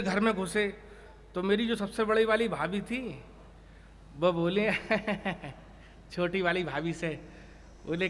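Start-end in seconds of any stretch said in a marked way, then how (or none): 4.8-5.5 soft, low chuckle; teasing laugh. Retold or imitated. Elder sister-in-law teasing the younger, soft chuckle. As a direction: snicker before the gibe.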